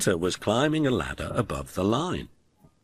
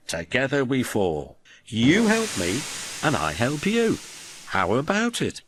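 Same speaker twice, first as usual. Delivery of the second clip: Gordon voice; 8 semitones higher than usual. Acted. Gordon proposing alliance.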